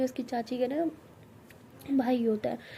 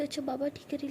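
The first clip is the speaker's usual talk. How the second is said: softer, gentle calming; soft soothing; 3 semitones higher, 5 dB quieter than usual. Acted. Siya soothing upset Tara, soft and gentle. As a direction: settle her down tenderly.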